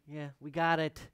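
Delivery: loud, cutting off the hushed act; mock exasperated. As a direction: break the hush with a loud dismissal. Mock exasperation with Bob Ross impression.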